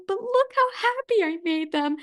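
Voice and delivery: high, sweet doting grandma voice; grandma delighted at spoiling the kids, lifted and sweet. Retold or imitated. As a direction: beam with pride like a grandmother. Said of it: "she'd be like".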